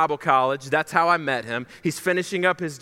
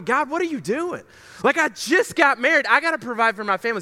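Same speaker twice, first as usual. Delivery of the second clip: exasperated pleading; 6 semitones higher, faster than usual. Retold or imitated. Acting out his plea to God.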